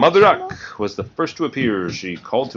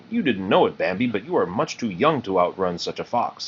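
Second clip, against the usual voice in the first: deep, kindly voice. Acted. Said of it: "in a deep, kindly voice".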